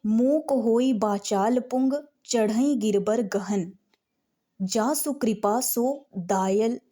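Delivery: slow, measured devotional reading; slow verse recitation. Shown as a demonstration. Teacher reads the next sortha to students, slow recitation. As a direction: intone it for the class.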